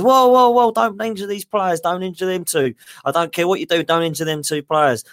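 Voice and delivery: a panicked manager begging the trialist to spare his stars; Arsene Wenger. Retold or imitated. Wenger pleading with the trialist after the elbow, hammed-up panic. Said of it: "He goes".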